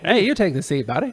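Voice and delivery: friendly Canadian insisting; Canadian accent. Pretend. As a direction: play an over-polite Canadian. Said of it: "a Canadian standoff".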